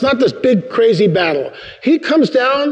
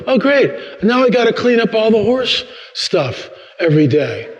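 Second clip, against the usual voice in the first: higher-pitched sarcastic grumble; mock disgruntled; 5 semitones higher than usual. Man grumbling about cleaning up after gift horses, disgruntled. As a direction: complain as an unhappy camper. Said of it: "I'm not happy camper at all".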